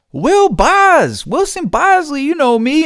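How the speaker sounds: put-on squeaky innocent kid act; goofy put-on voice. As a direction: play dumb in a high cartoonish voice. Goofing on the lunch aide.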